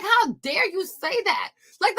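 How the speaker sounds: ordinary talk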